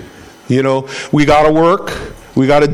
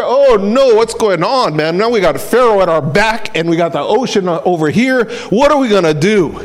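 mock panic, higher-pitched; acted dismay; 4 semitones higher than usual. Israelites trapped between Pharaoh and ocean, mock-panicked. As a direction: play people suddenly realizing they are trapped.

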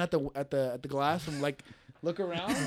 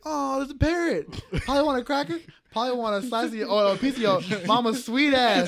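movie parrot quote; 6 semitones higher, 5 dB louder than usual. Retold or imitated. Retelling the Scary Movie parrot line to friends, higher and sing-song. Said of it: "Where he's like".

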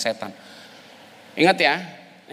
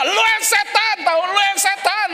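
mimicking angry wife; 4 dB louder than usual. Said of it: "Dia bisa ngomong".

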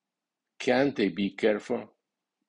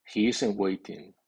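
"isn't" fully stressed before "waiting". Shown as a demonstration. Teacher models a negative sentence, strong stress on "isn't". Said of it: "las palabras negativas llevan acento fónico fuerte".

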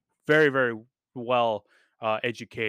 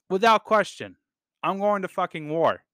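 emphatic outburst; 6 semitones higher than usual. Real, not acted. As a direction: fire it out, no hesitation at all. Outraged at the sister's refusal.

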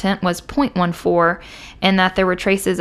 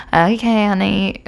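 put-on drunk slur; slower than usual. Shown as a demonstration. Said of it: "It's probably more slur that".

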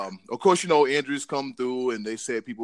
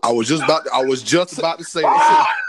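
louder, eager jump-in agreement; co-host eagerly shouting agreement; excited shout; 2 semitones higher, 7 dB louder than usual. Real, not acted. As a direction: blurt it out with excitement.

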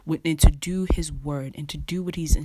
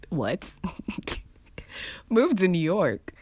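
incredulous echo; 4 semitones higher than usual. Retold or imitated. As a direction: repeat God's words as if you can't believe them. Incredulous reply to God's command.

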